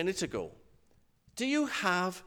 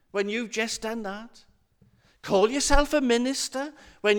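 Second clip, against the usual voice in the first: lightly voiced nagging critic on the shoulder; accusing inner voice; 3 semitones higher than usual. Little voice doubting a minister's faith, lightly accusing. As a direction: needle with reproachful questions, lightly acted. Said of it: "a little voice that says to you".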